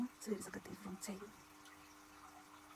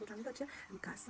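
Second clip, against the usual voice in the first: whispered; 5 dB quieter than usual. Shown as a demonstration. Repeats the phrase, then whispers it.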